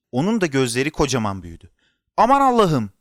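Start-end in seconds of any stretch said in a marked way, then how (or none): 2.2-2.9 high, loud gasping cry of shock; horrified exclamation. A narrator's reading. Belgin teyze seeing Kerem's face, horrified. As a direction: exclaim in alarm.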